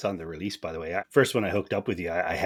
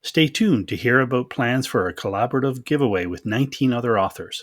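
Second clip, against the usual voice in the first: upbeat, raised announcer voice for a podcast promo; bright ad read, a bit higher and louder; 5 semitones higher, 5 dB louder than usual. Acted. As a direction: sell it like a radio spot. Host reads podcast promo.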